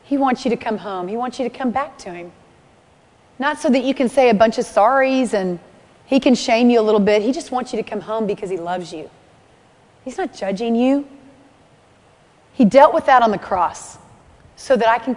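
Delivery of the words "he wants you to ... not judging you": softly, gently inviting them home; a quiet reassuring plea, almost hushed; tender appeal. Real, not acted. Pastor gently inviting the congregation back to Jesus, soft and tender.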